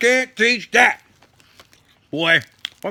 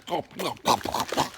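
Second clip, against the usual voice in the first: whispering; 7 semitones lower, 10 dB quieter, faster than usual. Real, not acted. Urging the camera on quietly.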